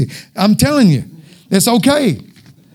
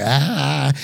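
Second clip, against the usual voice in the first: mock drone; 5 semitones lower, 6 dB quieter than usual. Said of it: "And Charlie Brown's teacher too".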